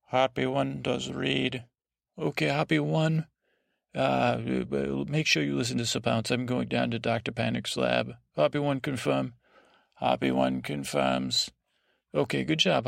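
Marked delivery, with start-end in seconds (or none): 0.1-1.6 computer voice. Pretend. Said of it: "computer voice from now on". 9.9-11.5 computer voice. Pretend. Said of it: "computer voice from now on".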